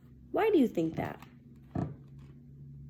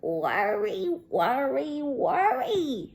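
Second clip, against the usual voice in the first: grandmother; 3 semitones higher, much slower than usual. Acted. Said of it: "said her grandmother".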